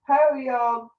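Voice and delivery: put-on a touch of American drawled greeting in an accent. Co-host greets a listener, in a light American accent. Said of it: "What am I saying in an American accent?".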